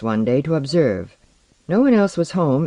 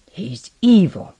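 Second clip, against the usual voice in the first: high, loud, slow and strained; 6 semitones higher, 5 dB louder, slower than usual. A narrator's reading. Porlock denounces Osden to the two women, strained voice. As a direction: force it out under strain. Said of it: "said in a strained voice".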